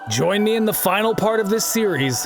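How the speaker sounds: measured video-essay read; scripted narration. Acted. Narrator closing out a Halo critique, scripted voiceover. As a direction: read it as a polished, steady voiceover.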